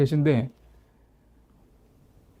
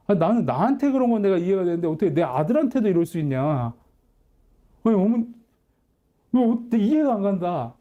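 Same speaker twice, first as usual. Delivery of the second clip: rising indignant outburst, fast and higher in the middle; angry reproach; 4 semitones higher than usual. Retold or imitated. Son to his mother about his absent father, rising angry reproach. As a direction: replay the anger as it builds, then settle.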